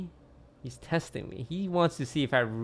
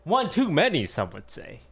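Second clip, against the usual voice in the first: wry quip; 5 semitones higher, 5 dB louder than usual. Acted. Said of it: "So many roster changes".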